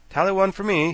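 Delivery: calm, pleased remark. A narrator's reading. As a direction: say it coolly. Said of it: "said the Scarecrow calmly".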